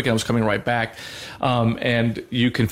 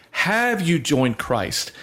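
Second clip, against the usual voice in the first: very slow, a little higher, lightly voiced priest; slow rite question; 4 semitones higher, much slower than usual. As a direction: draw the question out, solemn. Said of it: "And then it says".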